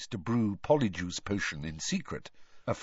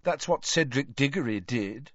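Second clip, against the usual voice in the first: put-on high, whiny girl ghost; Myrtle's ghost voice; 7 semitones higher than usual. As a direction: pitch up into a mopey schoolgirl ghost.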